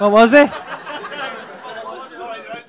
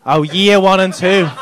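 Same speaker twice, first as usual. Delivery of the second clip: slow, patronising echo. Acted. Comic repeating the teacher's answer slowly and patronisingly. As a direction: talk down like to a child, slowly. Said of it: "why are you doing this like I'm a fucking child".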